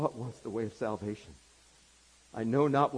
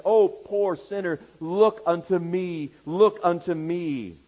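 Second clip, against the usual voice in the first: chanted refrain, growing louder each time; building pulpit appeal; 4 semitones higher, 7 dB louder than usual. Acted. Preacher voicing Christ's call to sinners, rising fervent appeal.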